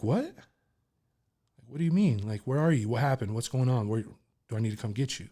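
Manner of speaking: anxious mother on the phone, urgent; alarmed mom. Retold or imitated.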